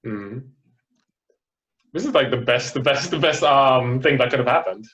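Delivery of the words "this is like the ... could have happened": stumbling over words with excitement; excited stutter. Real, not acted. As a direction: trip over the words, thrilled. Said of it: "I'm stuttering from excitement".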